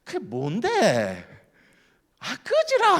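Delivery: mock Gyeongsang outburst, leaping high and loud; irritated Gyeongsang neighbour. Gyeongsang man dismissing a rambling Chungcheong visitor, mock exasperated outburst. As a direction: drag out the question, then blow up in Gyeongsang dialect. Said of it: "충청도 분이 경상도 분 옆집에 가서".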